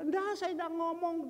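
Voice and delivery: high-pitched mock protest; mildly snippy retold retort; curt denial. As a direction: imitate a sharp-tongued denial. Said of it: "orang-orang yang ketus mulutnya yang berbicara".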